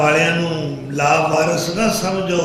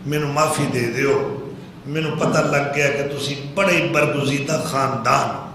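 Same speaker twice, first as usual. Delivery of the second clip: subdued, lower and softer mock plea; retold pleading; 3 semitones lower, 4 dB quieter than usual. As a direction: beg forgiveness in a lightly acted, humbled voice. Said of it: "ترلا کرن لگ پیا". (ترلے منت دی ہلکی نقل)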